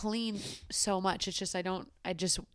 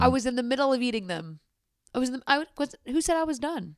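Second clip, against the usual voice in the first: indignant protest; 6 semitones higher than usual. Real, not acted. Indignant defence.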